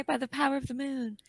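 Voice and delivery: lightly voiced magical girl; hint of a transformation call. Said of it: "what does she say?".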